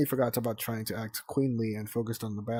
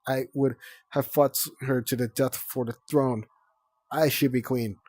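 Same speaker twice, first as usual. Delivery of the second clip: dramatic claim; 2 semitones higher, 5 dB louder than usual. Acted. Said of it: "She flapped her wings dramatically".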